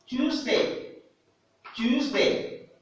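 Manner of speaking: Tuesday dit haut, U comme you; Tuesday en modèle, voix haute; English model word. Shown as a demonstration. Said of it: "U, avec ces mots". (Tuesday prononcé à l'anglaise, haut)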